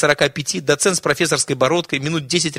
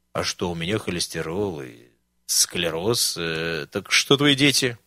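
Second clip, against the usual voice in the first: put-on weak old man; 8 semitones lower, 4 dB quieter, slower than usual. Old man pleads his ailments.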